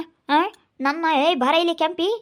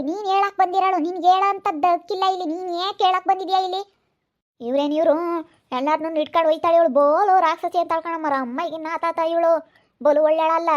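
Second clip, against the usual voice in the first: heated shouting. Acted. Heated quarrel, raised voices.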